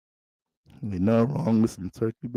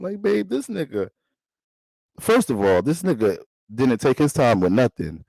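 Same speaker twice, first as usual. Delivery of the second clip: put-on girlfriend voice. Girlfriend tells her man the Aries used her, mild gripe. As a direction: play the girlfriend griping about him.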